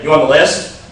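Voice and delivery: curt bouncer question, tune slanting down; mock bouncer challenge, falling. Shown as a demonstration. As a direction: ask like a doorman sizing you up. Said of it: "their tonality slants down".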